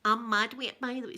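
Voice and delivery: lightly put-on Scottish Ned; a hint of a cocky local Ned; wee Ned talk. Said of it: "they talk like this".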